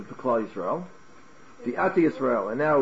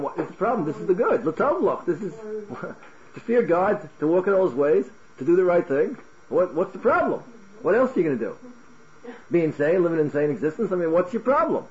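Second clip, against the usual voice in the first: raised pitch, mock puzzlement; lightly acted bewilderment at their objection; baffled incredulity; 4 semitones higher than usual. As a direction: argue as if it were utterly obvious. Voices Moses baffled by others' difficulty.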